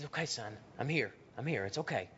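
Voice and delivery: father calming his son in the storm; comforting father. Retold or imitated. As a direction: soothe a scared son.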